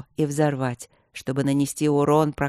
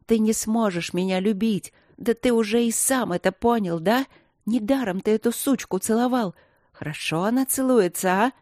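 hysterical; 3 semitones higher than usual. Acted. Hysterical mocking tirade, crying.

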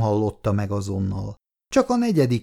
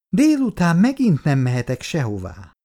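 bitter; 7 semitones higher, 3 dB louder than usual. A narrator's reading. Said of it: "mondta Irén keserűen".

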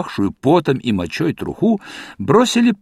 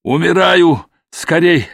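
feigned moaning plea; 2 semitones higher, 3 dB louder than usual. Acted. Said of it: "застонал".

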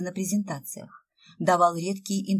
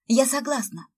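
quick eager cry, higher; eager exclaim; 6 semitones higher, 4 dB louder than usual. A narrator's reading. Sveta jumping at the chance to meet the writer, eager exclaim. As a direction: blurt it out, thrilled. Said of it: "торопливо воскликнула Света".

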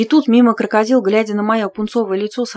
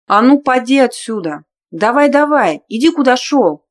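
angry shooing; 4 semitones higher, 5 dB louder than usual. Acted. Heroine drives off intruder.

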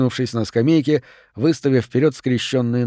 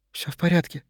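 quiet; 5 semitones higher, 6 dB quieter than usual. A narrator's reading. Lane calms the situation.

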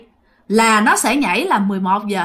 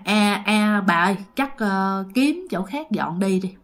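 scared father; 3 semitones lower, 4 dB quieter than usual. Retold or imitated. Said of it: "ba của bạn rất sợ".

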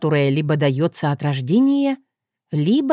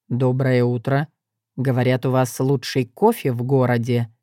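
accusing tone; 5 semitones lower than usual. Acted. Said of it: "сказал он таким тоном, словно хотел обвинить".

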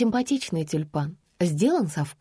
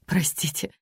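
whispered apology. Acted. Narrator whispers.

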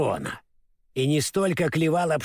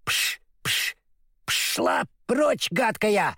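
mild shout; 3 semitones higher, much slower than usual. Retold or imitated. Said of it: "закричал я".

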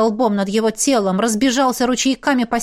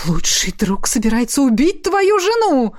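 horrified; 3 semitones higher than usual. A narrator's reading. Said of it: "ужаснулся Ричпок".

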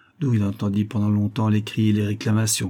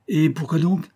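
mild, high-pitched shout of protest; raised pitch, indignant question; shouted challenge; 7 semitones higher than usual. A narrator's reading. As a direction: cry back in challenge. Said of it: "cria le banquier".

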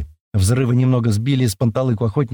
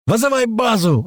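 high yell over the engine; a driver yelling at his passenger; shouting; 11 semitones higher than usual. A narrator's reading. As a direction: shout the order, high and urgent. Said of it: "ору я".

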